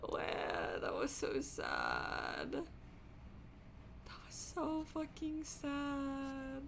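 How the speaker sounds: slow, soft, choked words; weepy. Real, not acted. Streamer still weeping over the scene, soft and slow. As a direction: barely get it out through crying.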